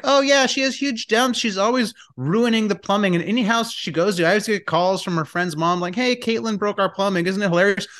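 high, airy mock-amused sister voice; a light take on a breezy sister; imitating sister. Brother mimics his sister shrugging off the plumbing, high and airy. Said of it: "My sister's like".

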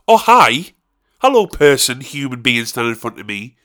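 loud, bright, friendly hello; cheery greeting. Pretend. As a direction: greet them like a long-lost friend. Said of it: "instead of going".

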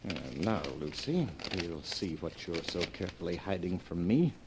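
muttering to himself. Acted. Alone, opening wife's secret letter.

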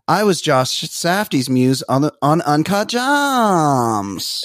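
put-on slow, drawn-out Valley girl voice; Julia Fox impression. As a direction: stretch out the last words lazily. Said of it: "and she goes".

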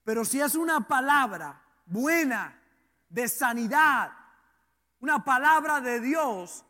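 deliberate phrases broken by pauses; emphatic preaching. Real, not acted. Preacher contrasting bad and good words, emphatic preaching. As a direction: land each key word firmly, then pause.

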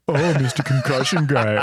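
laughing while teasing; laughing mock tease. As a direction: tease him through a laugh. Mocking wife teasing.

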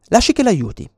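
voce dell'aggressore, più alta e più forte; l'aggressore. Retold or imitated. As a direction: offri aiuto con falsa gentilezza. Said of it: "è l'aggressore che parla". (accenno di aggressore finto gentile)

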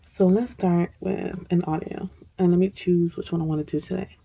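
talking while chewing seeds; mouth full. Real, not acted. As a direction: chew and talk at once. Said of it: "I'm eating some sunflower seeds".

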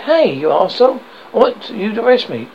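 loud, high taunt at the constable; provoking yell. Acted. David goading the policeman to arrest him, loud yell.

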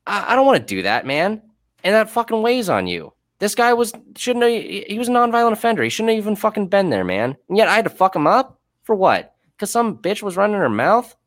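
high, strained pleading at the injustice; real exasperated protest. Real, not acted. Corrections officer protesting having hurt a nonviolent inmate, high-pitched exasperation. Distressed rant over hurting an inmate.

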